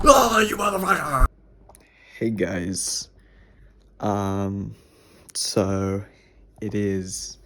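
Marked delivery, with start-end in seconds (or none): 0.0-1.2 higher, louder angry curse; real frustrated swear; frustrated outburst. Real, not acted. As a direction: blurt it out in annoyance.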